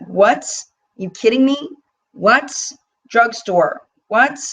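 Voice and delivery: high, incredulous "what?"; stunned delighted disbelief; amazed disbelief. Real, not acted. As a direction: react like you can't believe the price. Amazed reaction to drugstore palette.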